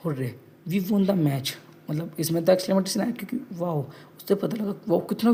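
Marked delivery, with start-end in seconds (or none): 0.1-1.5 slow dictation. Shown as a demonstration. Teacher dictating example sentence.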